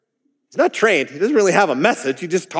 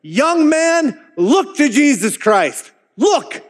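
much higher, slowed mock shout; 10 semitones higher, much slower than usual. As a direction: cry out to the young man to look. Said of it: "he literally shouted".

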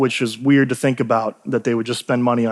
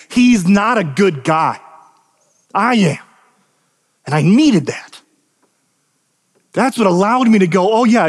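higher, emphatic sermon delivery; impassioned preaching; 5 semitones higher than usual. Real, not acted. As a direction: preach it with conviction, leaning on key words. Preaches with force.

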